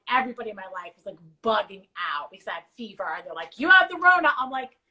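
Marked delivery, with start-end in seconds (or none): 3.6-4.3 mock alarmed friends. Friends panicking about her fever.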